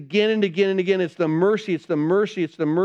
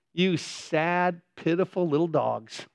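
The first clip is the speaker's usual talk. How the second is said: pitying; 5 dB quieter, slower than usual. Retold or imitated. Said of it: "He almost feels sorry for them".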